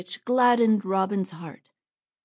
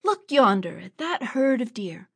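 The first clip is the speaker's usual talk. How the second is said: very angry; 3 semitones higher, 4 dB louder than usual. Acted. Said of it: "Robin grew very angry".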